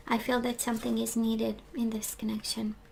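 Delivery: hoarse near-whisper; losing voice. Real, not acted. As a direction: voice giving out mid-sentence. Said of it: "I'm losing my voice".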